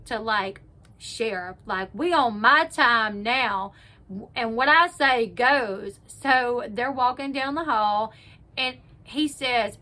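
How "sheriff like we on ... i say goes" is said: slow, emphatic mock sheriff authority; imitating a sheriff taking charge; stern sheriff. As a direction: lay down the law, loud and drawn out. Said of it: "the sheriff goes from being".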